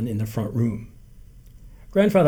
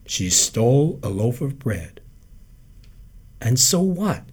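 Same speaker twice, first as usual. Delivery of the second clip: unimpressed. A narrator's reading. Jake dismissing Abe's news, unimpressed and calm. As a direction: shrug it off coolly.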